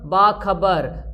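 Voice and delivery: बा खबर spoken very slowly, syllable by syllable. Shown as a demonstration. Teacher slowing down so students catch बा खबर. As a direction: stretch बा खबर right out for the class. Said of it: "इस तरह से बोल सकते हैं".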